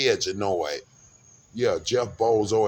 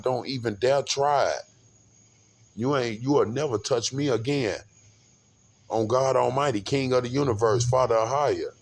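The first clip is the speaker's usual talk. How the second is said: defiant warning; 4 semitones higher than usual. Retold or imitated. Warning police, swearing by God.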